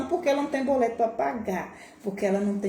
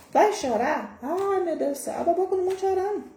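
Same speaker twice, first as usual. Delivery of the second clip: high, fast, wobbly fake tearful; mock about to cry; 9 semitones higher than usual. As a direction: act like you're bursting into tears. Acting someone about to cry. (imitando choro segurado, agudo e rápido)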